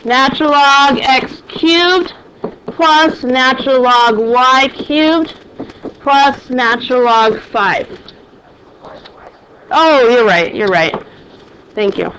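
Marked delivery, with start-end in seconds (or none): 0.0-7.9 slow, clear dictation pace. Shown as a demonstration. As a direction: say each term slowly. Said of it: "let's write down what we have".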